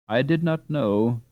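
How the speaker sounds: slow words with a laugh. Acted. Peter confessing how much he wanted to win, laughing. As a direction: admit it through a chuckle. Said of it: "he added laughingly".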